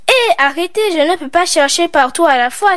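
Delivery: fed up, tell them to stop crowding; annoyed protest. Acted. Girl snapping at her friends, irritated. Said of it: "s'énerva Isalia".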